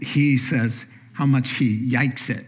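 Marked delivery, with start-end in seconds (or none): 1.9-2.3 yikes with a Y in place of the L, imitating a four-year-old; child's Y for L. Grandpa imitating his grandson's yikes for likes. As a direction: say yikes, Y sound replacing the L. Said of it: "the L's have turned to Y's".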